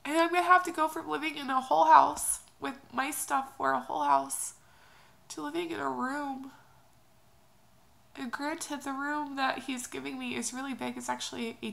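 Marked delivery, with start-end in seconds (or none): 0.0-6.5 pushing the words out while crying; tearful outburst. Real, not acted. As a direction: voice straining loud through tears. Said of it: "another crying video".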